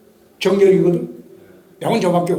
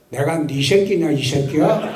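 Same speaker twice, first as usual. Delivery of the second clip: retold insult with a laugh; 3 semitones lower than usual. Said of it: "이 새끼가 그런 게".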